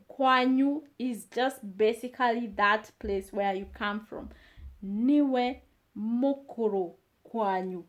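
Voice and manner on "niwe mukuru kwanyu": slow model. Shown as a demonstration. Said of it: "teacher repeats slowly then fast".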